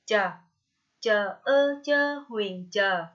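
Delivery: "Chờ" with a light ch, tongue not curled; light, uncurled CH. Shown as a demonstration. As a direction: spell out "chờ" slowly, keeping the tongue flat on ch. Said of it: "phát âm nhẹ âm chờ, lưỡi không cong". (đánh vần "chờ", âm ch nhẹ, không cong lưỡi)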